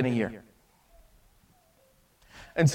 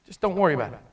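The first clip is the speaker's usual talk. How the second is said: softer, reassuring master; gentle forgiveness; 5 dB quieter, much faster than usual. Acted. Master forgiving the slave's debt, soft and reassuring. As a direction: let him off gently. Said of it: "He said".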